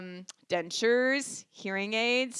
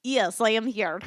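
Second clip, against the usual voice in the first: re-enacted Russian-accented roll-call answer; mock Russian accent. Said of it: "Did you just speak in a Russian accent?".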